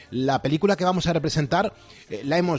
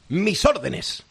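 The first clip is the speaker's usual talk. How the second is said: slow, scheming pirate captain voice; villainous pirate captain; 2 semitones higher, much slower than usual. Acted. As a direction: gloat like a sly pirate captain.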